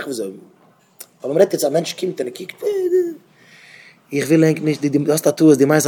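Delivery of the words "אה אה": high-pitched imitated gawking noise; a high, drawn-out sound mimicking someone staring; mimicked noise. Mimics person coming and staring.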